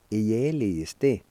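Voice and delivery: "ieliste" said as one connected word; connected teaching demo of "ieliste"; careful pronunciation. Shown as a demonstration. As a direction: model "ieliste" clearly for learners. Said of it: "I'll pronounce these words one more time".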